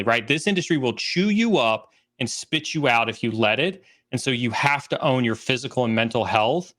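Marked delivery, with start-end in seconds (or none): 0.3-3.8 measured stress on "chew you up" and "spit you out"; deliberate, distinct emphasis. Real, not acted. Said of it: "I say that very s-, distinctively".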